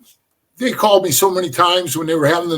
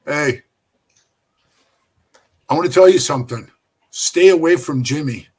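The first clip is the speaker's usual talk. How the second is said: low, measured retold warning; stern warning; 4 semitones lower than usual. Club boss warning a prospect over breakfast, sternly. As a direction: drop the pitch and warn him off.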